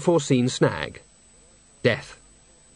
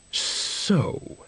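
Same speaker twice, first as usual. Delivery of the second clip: whispered; 4 semitones higher, 5 dB quieter than usual. Acted. Bucket begins.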